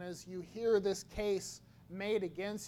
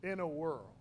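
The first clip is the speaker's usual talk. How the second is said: low dramatic trailer narrator; movie trailer voice; 3 semitones lower than usual. Shown as a demonstration. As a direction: intone it like a film trailer. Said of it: "Sounds like a movie trailer".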